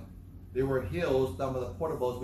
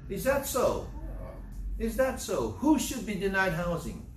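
higher, mock-questioning is that so; sarcastic challenge; 4 semitones higher than usual. Preacher scoffing at the mayor's housing quote, sarcastic. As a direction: scoff at the claim with a raised pitch.

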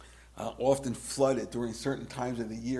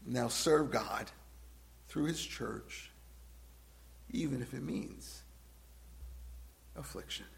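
much softer, slow, dropping to affliction; quiet, slow appeal; 10 dB quieter than usual. Acted. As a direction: pull them in close after the shouting. Quiet turn after loud build.

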